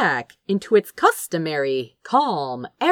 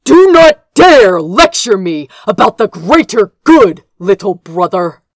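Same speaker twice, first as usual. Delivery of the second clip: louder, clipped fury held in check; tight, controlled anger; 10 dB louder than usual. A narrator's reading. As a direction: bite each word off tightly. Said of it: "Gabriel said tightly".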